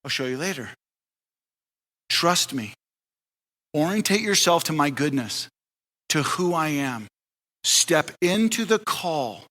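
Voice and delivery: calm and reassuring, like a patient father; gentle God voice. Retold or imitated. God answering Abraham gently.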